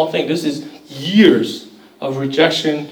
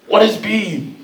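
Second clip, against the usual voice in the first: a higher put-on voice asking what B is; mock puzzled parent; 6 semitones higher, slower than usual. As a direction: lightly play the puzzled parent. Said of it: "they're like".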